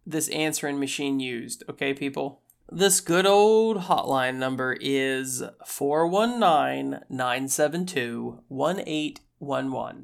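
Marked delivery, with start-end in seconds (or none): 2.7-9.7 slow, spelled-out hotline number; infomercial. Pretend. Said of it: "and call now". 9.7-10.0 infomercial. Pretend. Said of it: "and call now".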